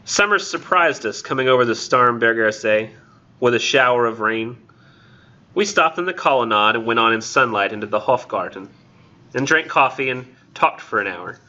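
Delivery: measured verse with spaced phrases; poem reading. Acted. Lecturer reading Eliot to the class, poem reading. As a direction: recite it line by line, pausing between phrases.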